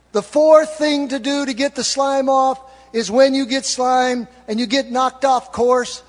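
ordinary talk

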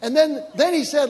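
ordinary talk, nothing marked

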